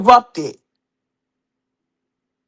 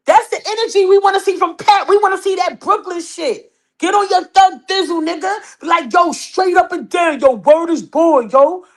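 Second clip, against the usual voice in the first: Brooklyn tough-guy voice a notch higher; mock Brooklyn tough guy, lightly voiced; husband's Brooklyn voice; 5 semitones higher than usual. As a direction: hype it like a Brooklyn thug. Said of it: "I'm doing my husband's voice".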